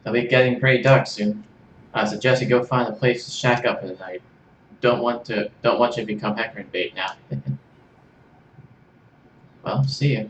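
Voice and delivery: put-on a light Australian-ish accent, slips British; Aussie farewell, badly done; attempted Australian accent. Kit parting from Serge in a shaky Australian accent. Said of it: "English British or Australian British".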